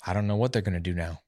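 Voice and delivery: lightly put-on Texas twang. Shown as a demonstration. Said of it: "he had this Texas twang, you know, accent".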